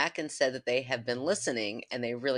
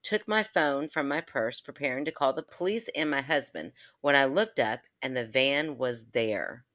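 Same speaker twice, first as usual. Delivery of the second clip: story reading. Acted.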